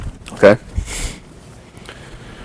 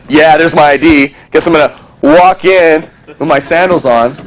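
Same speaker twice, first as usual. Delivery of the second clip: mock smug; 4 semitones higher than usual. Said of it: "I might be like".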